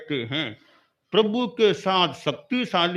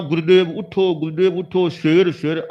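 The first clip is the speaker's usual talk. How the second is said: urgent call; 6 dB louder than usual. Retold or imitated. Disciple retells calling guru.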